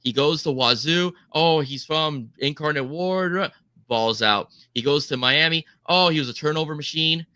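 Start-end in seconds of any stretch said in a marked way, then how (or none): 1.3-3.5 higher, drawn-out mocking quote; mock doubters' dismissal. Co-host voicing the quarterback's doubters, mock dismissive. 5.9-7.2 higher-pitched mocking quote; mock doubters' dismissal. Co-host quoting critics of the Miami quarterback, mock dismissive.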